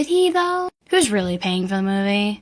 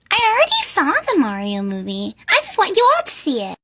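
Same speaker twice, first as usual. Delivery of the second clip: mock Julie voice; 7 semitones higher than usual. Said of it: "That's what she'd be like".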